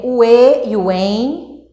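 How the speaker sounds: "e" held as an oral vowel, then "em" nasalised; oral e nasal. Shown as a demonstration. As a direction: contrast pure "e" with nasal "em", both drawn out. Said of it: "por determinado som". ("e" oral e "em" nasal, prolongados)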